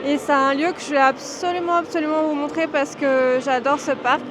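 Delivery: muffled behind a face mask; talking through a mask. Real, not acted. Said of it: "je parle avec le masque".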